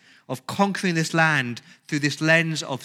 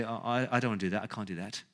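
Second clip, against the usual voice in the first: timid refusal; 6 semitones lower, 9 dB quieter, faster than usual. Retold or imitated. Believer refusing God's command.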